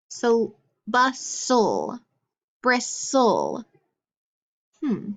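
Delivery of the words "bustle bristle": bustle and bristle in two slow beats with silent t; syllable-by-syllable reading. Shown as a demonstration. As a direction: draw out the "sul" in bustle and bristle. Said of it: "listen to when I read these words".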